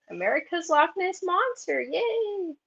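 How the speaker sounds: high, bright cheer; excited cheer. Real, not acted. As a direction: cheer it like a fan.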